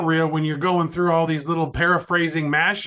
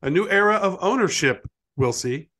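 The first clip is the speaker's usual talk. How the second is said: bouncy limerick lilt. Acted. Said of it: "One more of those".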